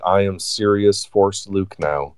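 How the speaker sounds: slow monotone robot-like Luke; flat, measured monotone mock Luke. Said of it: "it's very monotone".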